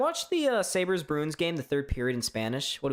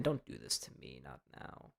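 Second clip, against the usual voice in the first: low, very soft mock-despairing plea; hushed pleading; 13 dB quieter than usual. Host begs the frozen ESPN stream not to quit, hushed pleading. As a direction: sink to a low, fading murmur.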